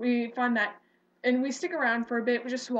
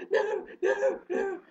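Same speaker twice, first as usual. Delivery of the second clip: frantic no; 9 semitones higher, slower than usual. Retold or imitated. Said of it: "I was just like".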